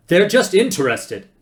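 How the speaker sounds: high, loud yelled retort; defensive shout. A narrator's reading. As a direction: shout down the doubt. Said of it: "shouted Zaphod".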